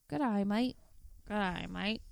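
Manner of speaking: squinting Aussie greeting; Australian accent. Shown as a demonstration. Demonstrating the squint theory, in an Australian accent. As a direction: say it twice through a squint, Australian. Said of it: "So you're like".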